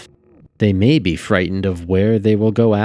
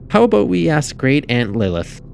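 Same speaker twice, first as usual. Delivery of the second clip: put-on high-pitched girl's suggestion; suggesting girl; 8 semitones higher, 3 dB louder than usual. A narrator's reading. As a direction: propose it eagerly in a high child's voice. Girl proposes asking their aunt.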